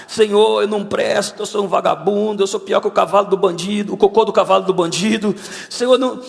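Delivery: imitated self-abasing plea. Preacher retelling his prayer in his room, pleading in self-reproach. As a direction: re-enact pouring out worthlessness to God.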